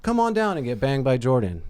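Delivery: upbeat podcast sponsor read. Acted. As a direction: read out the sponsor plug with a lifted pitch. Reads the sponsor's ad.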